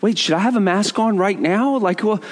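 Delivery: mock panic. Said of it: "I'm feeling, like, very ashamed".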